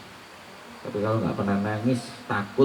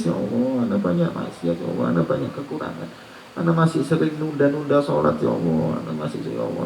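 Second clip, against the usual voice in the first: mock tearful prayer; 2 semitones higher than usual.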